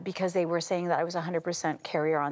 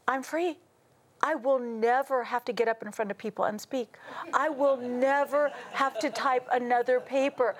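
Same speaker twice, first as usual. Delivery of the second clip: elated; 4 semitones higher than usual. Retold or imitated. Elated inner thought.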